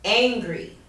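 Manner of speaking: "angry" with AN stressed; stress on first syllable. Shown as a demonstration. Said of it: "stress is on the first syllable".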